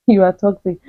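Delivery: real laugh through the words. Real, not acted. Amused at her old self, saying it through a laugh. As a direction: laugh as you say it. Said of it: "I'm actually laughing".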